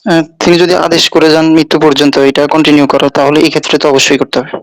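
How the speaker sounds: echoing call line. Real, not acted. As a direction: voice bouncing back with echo. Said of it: "আমরা দেখি আপনার থেকে ইকো, ইকো হচ্ছে তো".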